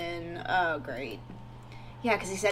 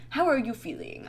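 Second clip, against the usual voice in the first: put-on half-hearted German accent, pitched higher; failed German accent; 7 semitones higher than usual. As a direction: attempt a German accent, badly. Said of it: "I can't do a German accent".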